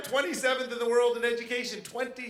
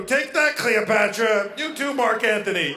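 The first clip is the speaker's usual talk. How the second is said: Caesar; 7 dB louder than usual. Retold or imitated. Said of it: "Caesar would have been like".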